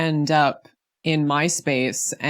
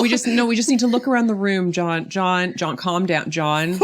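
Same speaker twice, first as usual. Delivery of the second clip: acted calming plea. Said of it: "I'd be like".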